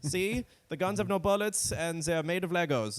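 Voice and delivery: high, eager-to-please caricature; mock meek Germany. Mocking Germany's harmless military in a high, eager voice. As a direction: bend over backwards to please.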